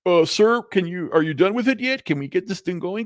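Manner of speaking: impatient caller imitation. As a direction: lightly act out someone hurrying you along. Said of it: "this guy was like".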